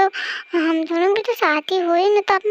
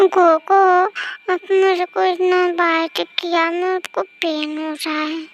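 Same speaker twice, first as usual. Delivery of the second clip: put-on clingy girlfriend. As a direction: plead like a sleepy sulking girl. Girlfriend complaining.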